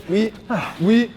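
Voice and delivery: urgent shouting. Real, not acted. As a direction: push him on, shouting. Coach urging fighter at round end.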